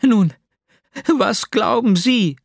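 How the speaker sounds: high, urgent question; agitated demand. A narrator's reading. Woman demanding her friend's opinion, agitated.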